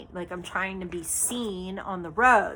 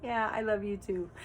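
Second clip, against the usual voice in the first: tender aside; 6 dB quieter than usual. Real, not acted. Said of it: "That's just so sweet of him".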